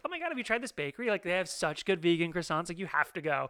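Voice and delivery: husband imitating his tipsy wife, bubbly and gushing. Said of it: "sounding like you've had a couple of cocktails".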